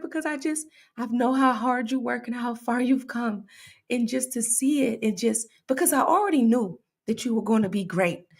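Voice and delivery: a touch of tearful pride, halting; mock tearful. Wife imitating her husband's proud words, mock tearful. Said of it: "He started crying the other day".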